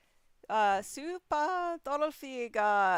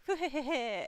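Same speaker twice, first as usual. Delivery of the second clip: higher-pitched, acted cat giggle; delighted giggle; 6 semitones higher than usual. Voicing the cat coming home, delighted giggle. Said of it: "She's just delighted".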